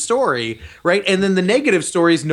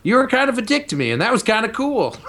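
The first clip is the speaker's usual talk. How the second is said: a light hint of Bruce Campbell's voice; barely shifted, mostly his own voice; Bruce Campbell impression; 2 semitones higher than usual. Podcaster doing a light Bruce Campbell impression. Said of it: "This is my Bruce Campbell impression".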